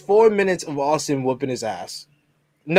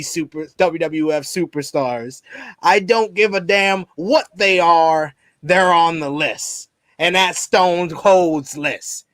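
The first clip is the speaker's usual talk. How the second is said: Austin impression. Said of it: "I'm gonna try my best Austin voice".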